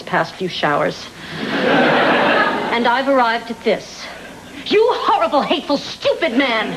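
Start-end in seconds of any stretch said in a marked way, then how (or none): 4.6-6.7 angry. Acted. Carol berates Charlie after reflection.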